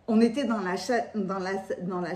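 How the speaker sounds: slight lisp, s slurring toward sh; speaking with a lisp. Real, not acted. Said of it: "qu'est-ce que j'ai à zozoter comme ça". (qui zozote)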